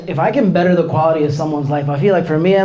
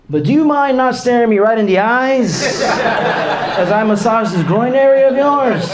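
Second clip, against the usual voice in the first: slow pleading; 4 semitones higher, slower than usual. Acted. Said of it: "asks patient, deadpan".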